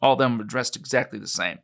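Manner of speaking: put-on a light New Mexico ranch-country accent; Roswellian accent. Witness describing the crash site to his interviewer, lightly Roswellian accent. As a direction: tell it like a Roswell local witness. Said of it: "my best attempt at a Roswellian accent".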